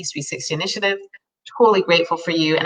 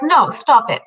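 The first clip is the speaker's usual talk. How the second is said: firm self-scolding; 7 semitones higher, 5 dB louder, slower than usual. Retold or imitated. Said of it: "I'd be like".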